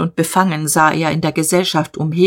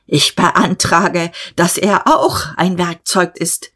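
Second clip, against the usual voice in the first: solemn motion; slower than usual. Acted.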